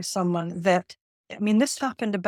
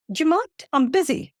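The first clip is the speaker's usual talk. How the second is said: higher, huffy "Do you mind?"; indignant; 6 semitones higher, faster than usual. Retold or imitated. Engrossed man shooing the trainer away, higher, huffy. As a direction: brush her off, affronted. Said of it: "And he went".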